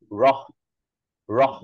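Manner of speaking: রহ flapped with a breath of air after it; a breathy flap on রহ; aspirated ঢ়. Shown as a demonstration. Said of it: "কেবল বাতাসটা আমরা বের করছি".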